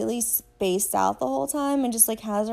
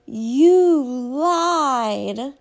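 a loud, higher shout into the phone; imitating Andrea yelling "you lied" into a voicemail; mock shout; 4 semitones higher, 10 dB louder than usual. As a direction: bark it like an accusation. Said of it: "shouts into the phone".

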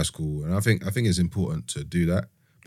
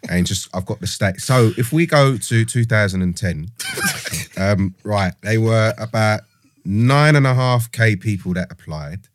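geezer voice. Pretend. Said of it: "the kind of geezer voice".

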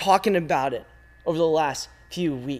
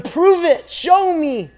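defiant challenge; 9 semitones higher, 3 dB louder, slower than usual. Pretend. Listener challenging God.

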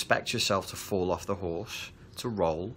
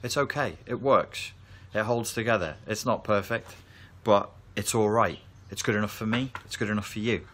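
higher, quicker, upbeat reassurance; reassuring parent; 3 semitones higher than usual. Retold or imitated. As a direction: cheer the child on that good enough is fine. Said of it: "is to say".

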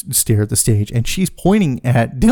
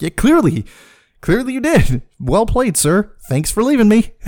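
sarcastic; 8 semitones higher than usual. Retold or imitated. Sarcastic reply to deserting friend.

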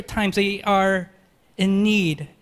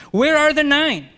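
higher, louder pointed question; Jesus demanding the missing nine, higher and louder; 8 semitones higher, 6 dB louder than usual. Acted. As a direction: ask it out loud and sharp, Jesus demanding. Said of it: "second rhetorical question".

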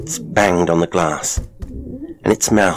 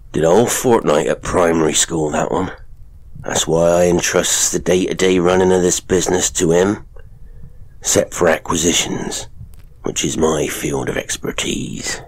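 sly showman father. Acted. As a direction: lean in and taunt her. Father brags about son.

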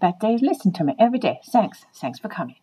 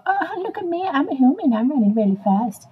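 higher, lightly put-on show-off human; mock human; 4 semitones higher than usual. Dog mimicking humans while running fast, mock show-off. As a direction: imitate a human showing off. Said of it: "we're pretending to be you guys".

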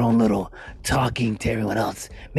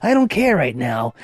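cheeky excitement; 7 semitones higher than usual. Real, not acted. Cheeky ranting host.

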